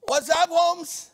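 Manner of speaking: high, loud, slow chicano drawl; hammed-up cholo voice; cholo greeting. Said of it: "cholo loco".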